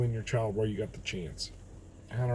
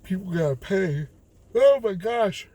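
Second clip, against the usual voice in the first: higher and louder, bursting out; worked-up outburst; 10 semitones higher, 8 dB louder than usual. Real, not acted. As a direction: blurt it out, worked up. Worked up about consequences.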